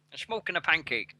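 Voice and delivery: hammed-up mock Dutch accent; Goldmember. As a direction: do a film villain's Dutch catchphrase. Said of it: "gold member".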